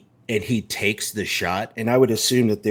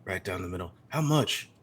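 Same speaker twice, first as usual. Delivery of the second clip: a hint of a menacing cowboy; 4 semitones higher than usual. Tex's slow menacing voice.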